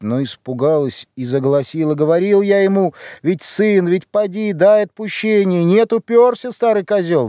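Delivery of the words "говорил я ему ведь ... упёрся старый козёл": angry rant. Acted. Сын бранит отца.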